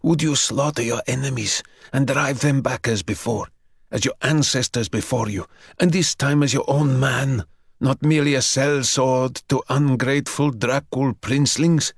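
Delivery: put-on the young man begging the vampire for his parents' story; eager plea. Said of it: "young man bargains with vampire".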